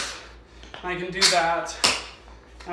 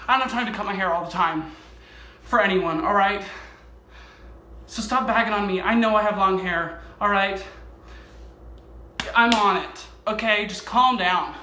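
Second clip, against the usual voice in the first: louder, half-joking defensive rant; mock annoyed; 3 dB louder than usual. Tap dancer to viewers mocking his hair, mock annoyed. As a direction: snap back at imagined hair critics, hammed-up. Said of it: "I'm angry at myself".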